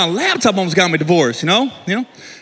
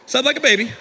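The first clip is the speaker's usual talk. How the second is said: ordinary delivery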